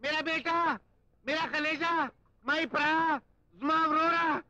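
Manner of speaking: high, pleading cry of a long-lost relative; a mock-emotional wail, pitched high; hammed-up tearful reunion. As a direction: overplay the weepy joy of finding family. Fake tearful reunion with lost brother.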